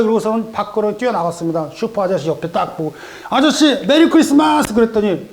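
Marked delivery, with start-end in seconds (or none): 3.3-4.7 high, bright holiday call to the shopkeeper; a kid shouting his greeting up high; high excited child call; cheery child greeting. Acted.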